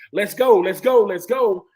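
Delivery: imitated coach's yell, loud at first; punchy mock coach holler, easing off; Ron Zook. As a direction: push players along with insistent, repeated urging. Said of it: "Ron Zook yells at everybody".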